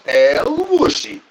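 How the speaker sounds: slow, stretched El Whooshy call; drawn-out catchphrase. Pretend. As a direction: stretch it out like a showman. Repeated catchphrase bit.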